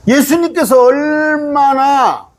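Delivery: high, stretched cry on 얼마나; drawn-out emphasis. Real, not acted. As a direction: hold 얼마나 long and high. Preacher stresses Jesus' longing in verse.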